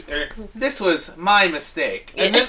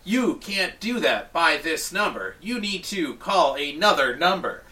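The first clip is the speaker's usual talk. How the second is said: mock robot voice; 3 semitones higher than usual. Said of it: "it's like".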